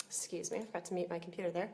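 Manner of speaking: breathy aside under her breath; a quick hushed apology off to the side; whispered excuse me. Real, not acted. Apologising to the webinar while unmuted, whispered. Forgot to mute her computer.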